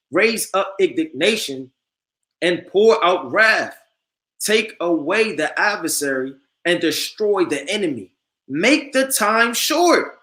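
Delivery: slow solemn verse, rising at adversary; preacher proclaiming the verse; scripture reading. Acted. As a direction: intone the prayer for wrath, building.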